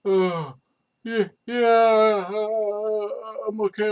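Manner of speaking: mock-chipper I'm okay; dazed reassurance. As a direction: insist you're fine while hurt. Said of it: "I'm like".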